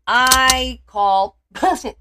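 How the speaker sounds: teasing, slow and loud; slow drawn-out call-out. Acted. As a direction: drag out each word, laughing, loud. Playfully accusing chat guest.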